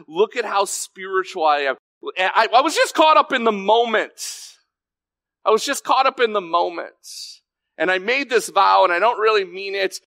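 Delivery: high-pitched mock protest; mock excuse-making. People backpedalling on vows to God, mock excuse-making.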